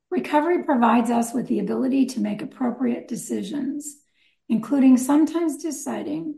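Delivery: measured, deliberate read from a text; careful reading with pauses between phrases; formal reading aloud. Acted. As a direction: read the summary out to the meeting. Reads a concept summary aloud.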